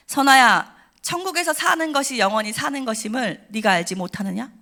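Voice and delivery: solemn, commanding call of a name; voice of God. Retold or imitated. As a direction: speak as God calling from above. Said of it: "너무 선명한 음성 한마디를 들어요".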